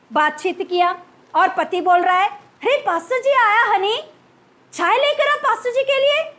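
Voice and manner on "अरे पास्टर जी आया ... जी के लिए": sweet show. Retold or imitated. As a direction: put on a loving act for the pastor. Husband sweetly calling wife. (पति की बनावटी मीठी आवाज़)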